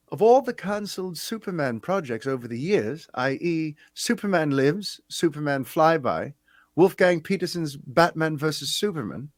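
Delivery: put-on a rough, half-remembered British accent; attempted British accent, lightly done; Stephen Marshall's British accent. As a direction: read the fan question in a loose British accent. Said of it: "I'm gonna read Steven's thing in his accent".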